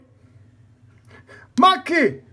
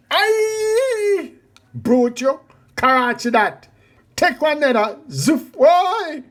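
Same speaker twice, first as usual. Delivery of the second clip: yelling; 6 dB louder than usual. Acted. Brawl, man crying out.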